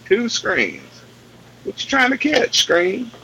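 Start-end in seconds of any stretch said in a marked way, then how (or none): 1.6-3.1 high teasing question to an object; teasing the screen. Pretend. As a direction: talk to the screen like a pet. Talking to the screen.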